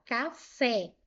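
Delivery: "Café" as two separate syllables, ca, fé; split into syllables. Shown as a demonstration. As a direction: separate "Café", landing firmly on the final fé. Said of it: "Ó, vou separar". ("Café" separando as sílabas, com fé mais forte)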